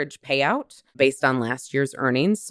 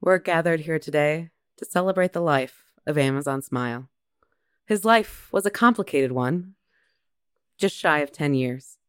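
mock eulogy.

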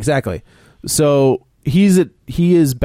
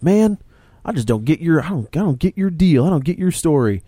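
higher, loosely drawled bully taunt with a rural American twang; a hint of a hillbilly bully, pitched up on the first word; mock hillbilly bully; 5 semitones higher than usual. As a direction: play the bully as a lightly voiced country bumpkin. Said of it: "But he's British, not a hillbilly".

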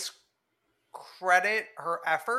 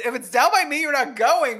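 higher, louder teasing parrot; mock echo; 9 semitones higher, 9 dB louder than usual. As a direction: throw his words back, mocking. Mock echo of friend's line.

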